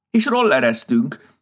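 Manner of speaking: high, loud, slow happy shout. A narrator's reading. Rabbit shouting to Santa while scooting, loud. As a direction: yell it out while rolling around. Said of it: "kiáltotta".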